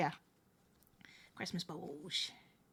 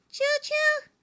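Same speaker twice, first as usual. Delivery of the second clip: choo choo; 6 dB louder than usual. Pretend. Train horn call for hype train.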